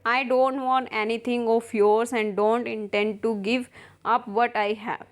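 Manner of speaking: reads the English lines slowly, word by word; slow play reading. Acted. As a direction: spell out each line of the play for the class. Teacher reads play aloud. (धीमा नाट्य पाठ)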